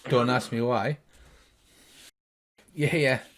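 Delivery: ordinary talk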